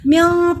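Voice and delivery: म्याँ with the n hidden in a nasal hum; drawn-out nasal ending on म्याँ; ikhfa. Shown as a demonstration. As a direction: hide the n of म्याँ in the nose. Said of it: "पे इख्फा होता है".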